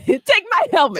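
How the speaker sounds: put-on sulky sob; crying teammate. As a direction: whimper it like a quitting crybaby. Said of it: "crying, crying".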